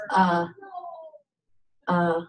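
uh as in the English word cut; schwa. Shown as a demonstration. Teacher repeating the schwa, separate uh sounds. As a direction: isolate a neutral uh, one at a time. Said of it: "This is called a schwa".

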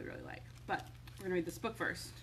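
plain reading voice

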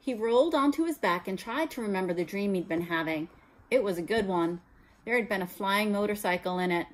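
clear, even storytelling read; story narration. A narrator's reading. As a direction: read the chapter to the class. Teacher reads novel aloud.

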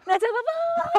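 high, playful catch-me call; playful tease. Pretend. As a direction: tease him to chase you.

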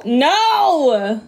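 laughing refusal. Retold or imitated. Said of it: "And then he'd be like".

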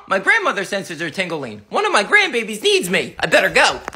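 a doting grandmother rumbling low; grandma voice. Acted. Grandma on her way to rescue her grandbaby.

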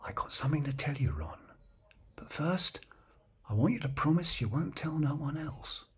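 hushed, secretive near-whisper; low voice. Retold or imitated. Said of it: "he says in a low voice".

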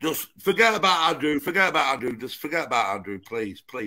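low pleading. Real, not acted. Man asking his rival to drop the subject, low fading plea. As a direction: plead quietly, sinking almost to nothing.

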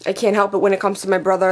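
fast, tearful rush; holding back tears; teary. Real, not acted. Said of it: "the sadness and the teary eye".

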